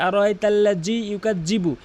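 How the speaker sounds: "আর ওয়াইতাল্লাজি ইউকাজ্জিবু" with j instead of dhal; hard j in both "ওয়াইতাল্লাজি" and "ইউকাজ্জিবু"; common mispronunciation. Shown as a demonstration. Teacher shows the serious mistake, hard j. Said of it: "এখানে মারাত্মক লেভেলের ভুল করে থাকে".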